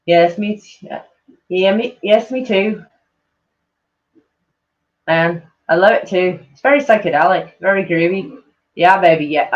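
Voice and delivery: badly faked groovy British accent; lightly put-on British swinger accent; horrible British accent. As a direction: do a hammy Austin Powers style British accent. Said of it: "that was a horrible British accent that, uh, Austin Powers did".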